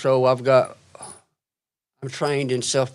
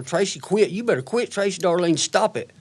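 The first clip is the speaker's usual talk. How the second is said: mom scolding; 5 semitones higher than usual. Retold or imitated. Mom scolding daughter retold.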